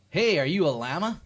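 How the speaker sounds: lightly acted curious stranger; mock friendly question. Stranger asking an animal if it's a llama, loud curious call.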